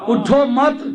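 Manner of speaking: اٹھو مت said as one phrase and left hanging; pause after مت. Shown as a demonstration. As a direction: join مت onto اٹھو, then stop. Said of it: "وقف اور جگہ کر دیا". ("اٹھو مت" ملا کر وقف)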